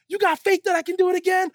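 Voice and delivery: high, loud mock showman shout; rally the crowd with a challenge; showman's call. Tightrope walker challenges the crowd, shouting. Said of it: "He's like".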